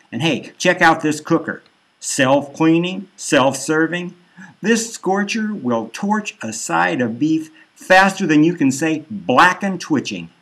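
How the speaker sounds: mild cheerful salesman voice; salesy grill buddy. Acted. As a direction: hype the grill like a lightly voiced huckster. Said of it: "Flamer says".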